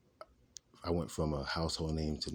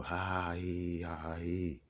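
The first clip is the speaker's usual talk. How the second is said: drawn-out mock "ha, hee" laughing; imitated laughter; 2 semitones higher, slower than usual. Man recalling his relatives laughing at night, mock laughter. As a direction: mimic others' laughter in long, sung-out syllables. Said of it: "a lot of laughing going on".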